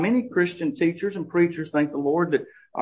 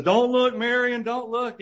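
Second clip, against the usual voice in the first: high, urgent hero's warning; 9 semitones higher than usual. Retold or imitated. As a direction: warn her off, pitched up high. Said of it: "And Harrison says".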